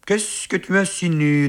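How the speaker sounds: high, indignant question; offended challenge. A narrator's reading. Friend challenging his rival's insinuation, high offended tone. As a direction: bristle at the accusation. Purpulent quarrels with Bossu.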